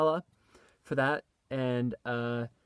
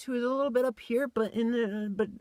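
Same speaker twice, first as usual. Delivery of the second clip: much higher boyish cartoon voice; Tommy's high voice; 10 semitones higher than usual. Shown as a demonstration. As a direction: pitch it way up like a kid. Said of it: "for Tommy's voice".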